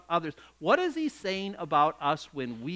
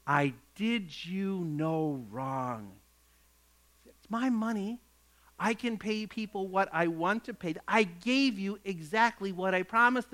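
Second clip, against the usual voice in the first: calm reply. Acted. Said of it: "the owner says to one of them".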